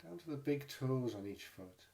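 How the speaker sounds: calm, unhurried meditation guide with long pauses; guided meditation. Real, not acted. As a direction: gently guide listeners into the body, leaving space between phrases. Leads a body scan meditation.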